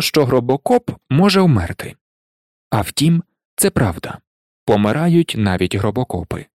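usual speaking voice

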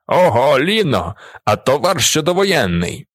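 leer at the barmaid with relish; delighted. A narrator's reading. Artilleryman slaps the barmaid and crows, mock delighted. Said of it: "хрипить він у захваті".

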